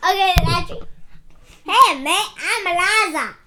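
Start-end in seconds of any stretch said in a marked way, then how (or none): 1.6-3.3 loud, hammed-up British accent; overdone British mate voice; badly faked English accent. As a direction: introduce yourself in a big mock British accent. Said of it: "That is not an English accent".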